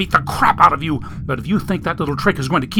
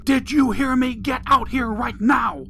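high-pitched scolding yell; shrill-pitched angry mother's call; yelling woman; 11 semitones higher than usual. A narrator's reading. Woman ordering the boy out of the stall, yelling. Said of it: "the woman's voice yelled again".

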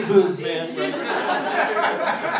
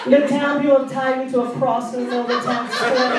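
hammed-up romance-novel narration, a touch higher; mock-dramatic tale told with relish; dramatic storyteller; 4 semitones higher, faster than usual. Wife telling her fantasy, hammed-up and dramatic. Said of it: "She was like".

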